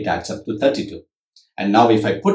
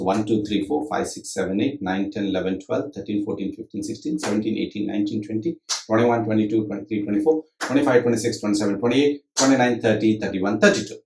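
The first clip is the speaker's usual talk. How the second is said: counting syllables; 5 dB quieter, faster than usual. Shown as a demonstration. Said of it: "let's say that each beat is taking four syllables".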